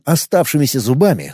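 ordinary delivery

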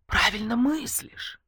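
slow, breathy inner whisper; a clever voice whispering in her ear; hushed secret whisper, drawn out. Acted. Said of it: "шепнул на ухо".

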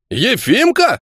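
high astonished question; surprised gasp. Acted. Guard recognising an old comrade, astonished. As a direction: gasp out the name in disbelief. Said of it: "удивлённо ахнули".

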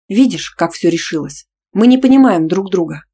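loud hurt cry; loud hurt outcry; hurt shout. Acted. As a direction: shout it, wounded. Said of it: "С обидой выкрикнула я".

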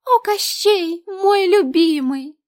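high, squeaky mock-adoring cry; squeaky parody. A narrator's reading. Lena parodies the old school skit for Varya, squeaky and high. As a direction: ham up a swooning princess. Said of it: "пискляво воскликнула, пародируя давнюю сценку".

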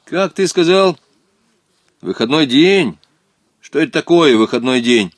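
puzzled. A narrator's reading. Young local boy to a stranger about a strange term, puzzled. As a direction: question it in mild bafflement. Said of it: "недоуменно посмотрел".

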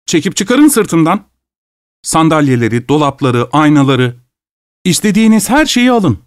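host at his wits' end with the greedy guest; frantic offering. Acted. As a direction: pile on the offers until he cracks. Host's frantic, sarcastic offering.

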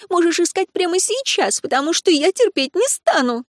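высоко, раздражённо, на взводе; выплеснуть ревность королю; ревнивая обида. A narrator's reading. Ревнивая ссора Лури с королём. (высоким обиженным голосом)

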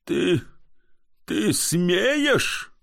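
indignant disbelief. Acted. Comic indignant.

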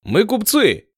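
high called-out claim. Acted. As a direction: Victor calling across the water to galley, shouting. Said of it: "крикнул Виктор".

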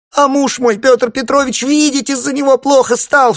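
very high, loud shriek; crying out. A narrator's reading. Wife cries out to guests about her husband, high shriek. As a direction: scream it out, pointing at him. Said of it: "вскричала Евдокия".

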